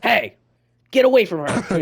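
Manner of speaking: high, loud mock-heroic call; heroic shout. Friend playing playground hero saving a girl, loud mock shout. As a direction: call out like a rescuing knight. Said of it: "like, the knight in shining armor".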